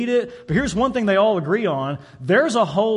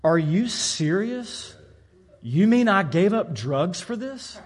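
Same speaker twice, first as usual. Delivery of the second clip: frustrated disbelief; slower than usual. Retold or imitated. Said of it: "very frustrated and very disappointed".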